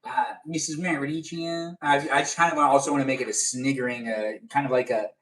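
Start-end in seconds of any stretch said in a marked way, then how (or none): 0.5-1.8 slow, softer Southern attempt; Southern accent. Streamer practising a viewer's surname, tentative Southern accent. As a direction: stretch the name out in a Southern accent. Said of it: "that in a Southern accent before".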